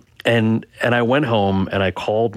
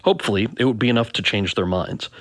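author reading his story aloud; measured narration with pitch lifts on indignant points; memoir narration. A narrator's reading. Author reads to an interviewer about a stereotyped audition, narrating.

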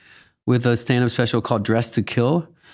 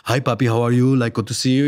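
imitating a lower speaking voice; real Jaime, lower; 3 semitones lower than usual. Imitating Abby's best friend greeting someone, lightly lowered voice. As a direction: talk slightly lower, as an imitation. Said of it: "he speaks a lot lower".

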